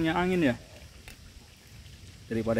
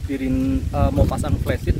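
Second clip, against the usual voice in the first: shouting over wind; 6 dB louder than usual. Real, not acted. Camping in strong wind.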